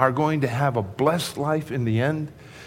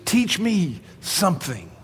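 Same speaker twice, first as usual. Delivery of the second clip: slow reflective; 5 semitones higher than usual. Shown as a demonstration. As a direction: linger on each word as a lesson. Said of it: "That's what picture of meekness is".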